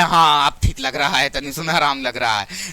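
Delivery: mock relief after spilling the secret; imitating a village woman finally at ease; relieved gossiping woman.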